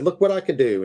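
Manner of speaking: put-on high, eager child showing off; excited kid. Boy showing granny card trick, eager high voice. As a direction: proudly show off a new trick. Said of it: "went back to Granny's house and said".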